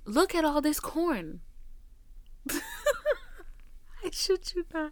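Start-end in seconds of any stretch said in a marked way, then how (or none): 0.0-1.4 higher, louder, slow amazed quote; imitating the awed boyfriend in the cornfield; mock boyfriend awe. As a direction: play him gawking at the corn. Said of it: "He's like".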